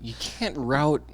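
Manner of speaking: unvoiced exasperated whisper. Real, not acted. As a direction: whisper it in disbelief. Frustrated aside.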